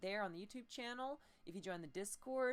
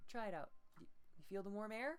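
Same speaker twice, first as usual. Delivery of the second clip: plain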